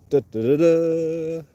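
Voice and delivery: high, slow cartoon-dog cheer; Scrappy Doo impression. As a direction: stretch it out like a cartoon puppy. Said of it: "doing a good impression of him".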